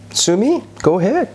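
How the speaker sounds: high, scoffing dare; defiant taunt. Retold or imitated. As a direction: throw the threat back mockingly. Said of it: "지들끼리 싸우기도 합니다".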